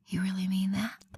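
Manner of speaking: breathy whisper into his ear. Acted. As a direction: whisper it close and soft. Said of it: "I whispered into his ear".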